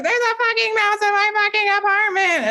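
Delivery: high, frantic, half-hammed freakout; retold panic. Telling him online about the mouse, panicked. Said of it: "I was like".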